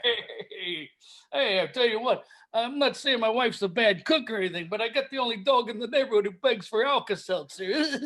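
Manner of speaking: lightly voiced put-upon comic; hint of an old-school club comic; Rodney impression. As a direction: trade one-liners as a no-respect comedian. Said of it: "is it time for dueling Rodneys".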